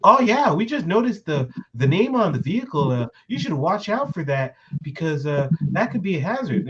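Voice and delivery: lightly put-on officious cop voice; imitated female cops. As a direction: mimic a cop explaining a petty concern. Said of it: "and they're all like".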